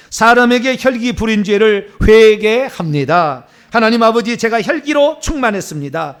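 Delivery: loud, insistent confession to God; measured phrases, pressed out forcefully; repentance prayer. Acted. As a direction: lead a congregation in fervent repentance.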